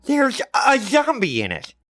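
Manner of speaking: put-on high kid's voice, serious; earnest kid. Johnny tells his mother of the zombie, high and earnest. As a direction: state it plainly.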